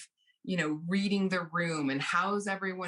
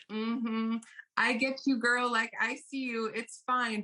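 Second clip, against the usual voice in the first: placating friend; 4 semitones higher than usual. Retold or imitated. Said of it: "I'm like".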